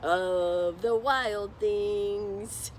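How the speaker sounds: slow, drawn-out royal boast; proud boy king. Pretend. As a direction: declare it grandly to your subjects. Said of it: "Max on top saying".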